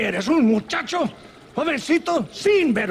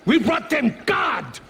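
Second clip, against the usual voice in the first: ranting outburst; 6 semitones higher than usual. Acted. General ranting about the locals.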